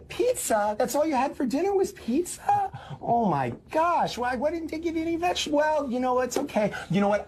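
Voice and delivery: lightly voiced mom fretting over the kid; a hint of a mother fussing about the pizza dinner; fussing worried mom. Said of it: "here's the difference".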